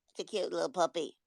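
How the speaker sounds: soft, low, quick reassurance; unbothered. Acted. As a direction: brush off the panic quietly. Calm reply to the dog panic.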